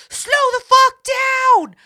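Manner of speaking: high, loud mock yell at the truck; retold yell. Bird yelling at a speeding truck, loud mock yell. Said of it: "puts both of her hands up and says".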